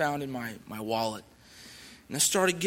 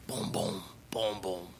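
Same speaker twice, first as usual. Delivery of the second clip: low, soft thudding booms; heartbeat boom; 7 semitones lower, 7 dB quieter, slower than usual. Retold or imitated. Pounding heart in the silent woods, low soft booms. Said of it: "my heart sounded like a big bass drum".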